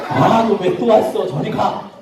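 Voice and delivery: slow, exasperated shooing; annoyed grocer. Acted. Grocer shooing a returning rabbit, mock annoyance. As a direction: draw out the complaint, then dismiss.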